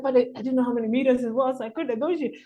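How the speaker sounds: high, rapid self-defence; flustered protest. Retold or imitated. Newcomer defending himself to hosts, flustered and high.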